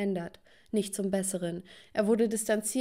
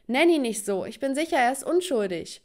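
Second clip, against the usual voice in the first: raised, insistent pleading for him; defensive protest; 4 semitones higher, 3 dB louder than usual. Acted. Daughter defends jailed boyfriend to her father, indignant. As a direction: push back, voice climbing.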